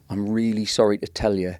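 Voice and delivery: imitating his dad in a Mackem accent; dad's Mackem accent. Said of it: "You've got to do the accent of your dad".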